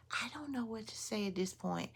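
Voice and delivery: breathless whisper of disbelief; barely voiced, at a loss for words; stunned whisper. Real, not acted. Speechless after the robbery, a stunned whisper.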